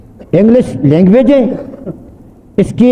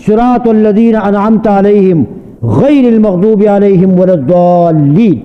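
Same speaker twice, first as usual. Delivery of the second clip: slow, measured Arabic recitation of al-Fatiha; Quran recitation; slower than usual. Shown as a demonstration. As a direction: recite each verse slowly as in prayer. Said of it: "میں کہتا ہوں".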